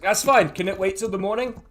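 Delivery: lightly voiced tipsy halfling; slightly drunk halfling. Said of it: "He is slightly drunk".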